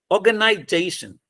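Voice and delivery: "ऑर्गेनाइजेशन" with "नाइ" light and "जे" strongest; graded stress. Shown as a demonstration. Teacher showing the tertiary stress, "नाइ" said lightly in ऑर्गेनाइजेशन. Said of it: "नई को हम हल्का बोल रहे हैं".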